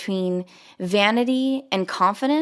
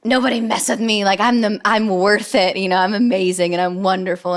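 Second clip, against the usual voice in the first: louder, hammed-up cocky boast; mock cocky; 5 dB louder than usual. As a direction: play someone full of themselves. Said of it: "vanity and being cocky is like".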